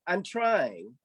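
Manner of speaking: P=A; weaker repeat. Acted. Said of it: "Fox performed the spell".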